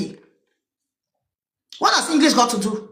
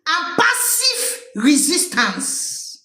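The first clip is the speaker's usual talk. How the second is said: mocking echo; 3 semitones higher, much slower than usual. Real, not acted. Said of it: "mocking echo of quote".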